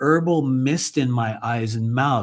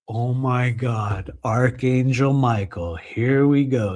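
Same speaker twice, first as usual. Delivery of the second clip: weary disbelief; slower than usual. Retold or imitated. Inner reaction to pompous introduction.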